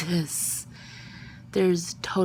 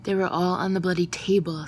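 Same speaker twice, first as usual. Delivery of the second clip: exasperated; 4 dB louder than usual. Acted. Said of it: "in exasperation".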